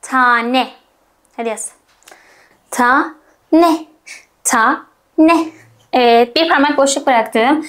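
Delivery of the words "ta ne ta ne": syllable by syllable. Shown as a demonstration. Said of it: "Önce ne duyuyorum".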